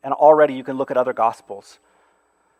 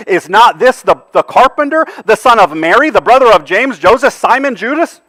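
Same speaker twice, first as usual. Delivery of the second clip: higher, louder sneering list of his family; mocking; 6 semitones higher, 7 dB louder than usual. Preacher voicing hometown crowd mocking Jesus' family, high and sneering. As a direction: sneer out each name, high and loud. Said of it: "They're mocking him".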